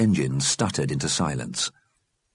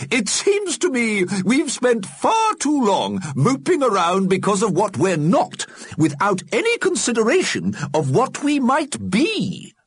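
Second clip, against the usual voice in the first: put-on old alderman voice; 3 dB louder than usual. Alderman reflects.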